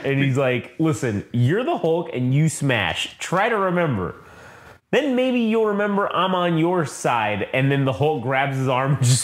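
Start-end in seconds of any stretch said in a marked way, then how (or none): 0.8-7.5 slow, higher-pitched guiding tone; mock patient coaxing. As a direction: play a therapist guiding a confused patient. Retold therapist coaxing Hulk to remember.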